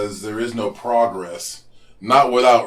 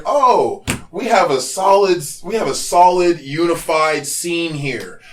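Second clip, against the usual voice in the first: mocking quote; 5 semitones higher than usual. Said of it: "So I'm hearing".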